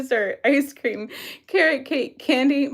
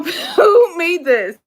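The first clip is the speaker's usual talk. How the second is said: laughing; 3 semitones higher, 4 dB louder, much slower than usual. Real, not acted. Laughing at quiz options.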